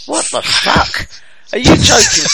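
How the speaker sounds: high disbelieving yelp; shocked squeal of disbelief; incredulous outburst. Real, not acted. Incredulous outburst at Guardiola idea.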